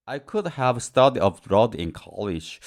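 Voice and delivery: slow, careful example sentence; slow example read. Shown as a demonstration. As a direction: read it out slowly for learners. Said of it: "example sentence read slowly".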